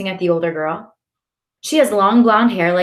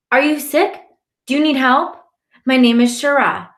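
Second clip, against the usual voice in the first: put-on little girl voice; 6 semitones higher, 4 dB louder than usual. A narrator's reading.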